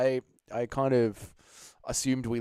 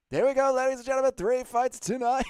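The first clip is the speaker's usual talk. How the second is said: announcer voice; 12 semitones higher, 4 dB louder than usual. Pretend. Announcing to viewers.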